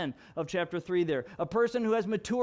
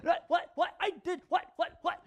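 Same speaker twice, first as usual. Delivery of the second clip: confused; 10 semitones higher than usual. Retold or imitated. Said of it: "And they'll be like".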